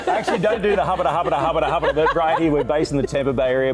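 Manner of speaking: loud, high auctioneer patter. Shown as a demonstration. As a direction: rattle it off like an auctioneer. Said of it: "Do you do the auctioneer fast voice".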